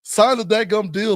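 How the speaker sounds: worked-up fan urging a holdout to sign; exasperated fan. Acted. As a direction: plead with the player like an impatient fan. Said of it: "I'm like".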